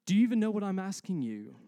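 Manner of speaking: loud, high-pitched challenge; indignant customer. Acted. Customer challenging the clueless new clerk, indignant. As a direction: demand it like an affronted shopper.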